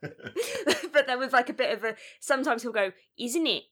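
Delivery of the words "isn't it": mock attempt at an English accent; bad English accent. Reviewer quoting the film's Taryn, bad English accent. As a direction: imitate a badly faked English accent. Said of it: "is that your English accent?".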